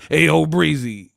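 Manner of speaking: punchy, loud mock hype greeting; imitating his voice. Host mimicking a man they laugh about, mock hype voice. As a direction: call it out as a lightly put-on impression. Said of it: "He sound like".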